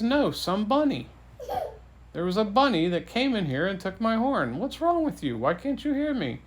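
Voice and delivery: high-pitched, climbing mock indignation; hammed-up fed-up storybook king; exasperated. King exasperated at being misheard.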